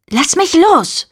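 sharp, high and slow, pulling away; hissed protest. Acted. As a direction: spit it out, yanking free. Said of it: "fauchte ich". (fauchend und gedehnt: „Lass mich los“)

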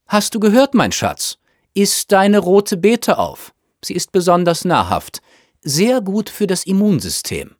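high-pitched, insistent mother voice; fussing mother. A narrator's reading. Mother urging her son to eat his beetroot, fussing. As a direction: fuss over a child in a high, managing voice.

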